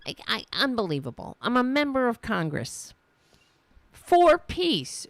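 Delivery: imitating an upset congresswoman; sputter, then rise to mock outrage; hammed-up affronted complaint; mock indignant. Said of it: "She's really indignant. She's very upset".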